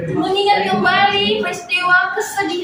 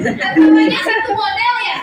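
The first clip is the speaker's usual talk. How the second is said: laughing; 2 semitones higher, 3 dB louder than usual. Real, not acted. Teacher laughs at class laughter.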